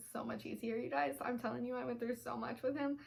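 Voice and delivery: quiet, choked-up voice; holding back tears as she speaks; teary. Real, not acted. Mom telling viewers how signs helped her son, near tears. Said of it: "I'm so sorry I'm so emotional".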